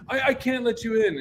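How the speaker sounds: high, stammering gatekeeper; mock flustered protest; retold flustered refusal. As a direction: imitate a helpless, nervous no. Gate girl refuses, flustered.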